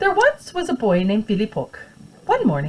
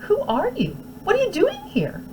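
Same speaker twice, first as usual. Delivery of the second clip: stern teacher. Acted. Teacher questioning boy.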